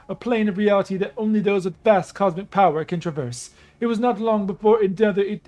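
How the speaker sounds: regal storyteller goddess; lightly voiced proud princess. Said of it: "I gotta do a Nubian female goddess voice".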